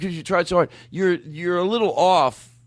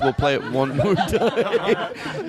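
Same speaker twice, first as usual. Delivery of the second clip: laughing drawl; much slower than usual. Acted. Host teasing, drawn out with laugh.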